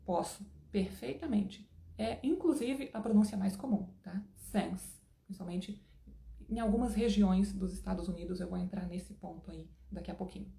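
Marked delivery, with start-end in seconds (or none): 4.4-5.0 Since with the i pushed toward a short e, almost "sence"; accented since. Shown as a demonstration. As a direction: let the vowel in Since drift to a brief e. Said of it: "quase since ... com um i levando pra um e curtinho".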